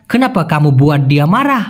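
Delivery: very slow, each Malay word spaced out; slow clear Malay. Shown as a demonstration. Teacher to Bengali learners, very slow careful Malay. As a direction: spell the phrase out by ear for learners. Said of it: "যদি মারাহ দিতাম".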